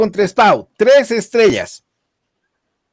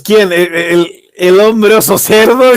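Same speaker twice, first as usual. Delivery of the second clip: louder, slow, laughing taunt; mocking wrestler quote; 5 dB louder, slower than usual. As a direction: sneer the question through a laugh. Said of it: "Dice el Bam Bam Joss".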